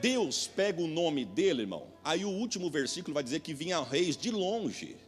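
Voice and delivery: quiet intimate preaching; sudden soft. Real, not acted. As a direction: pull them in quietly. Drops voice after shouting.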